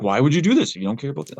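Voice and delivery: rattling off what everyone asks him, incredulous; mock incredulous questioner. People doubting his reasons, a quick mock-incredulous question.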